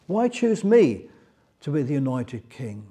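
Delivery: mild imitation of an overwhelmed Saul; overwhelmed protest. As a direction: beg to be let off, a little panicked. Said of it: "He sounds overwhelmed".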